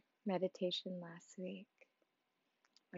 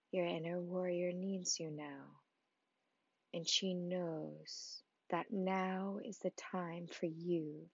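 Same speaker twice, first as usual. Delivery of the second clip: guided meditation. Acted. Guide leading the listener toward their inner warrior, unhurried meditation. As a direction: guide the listener gently, phrase by phrase.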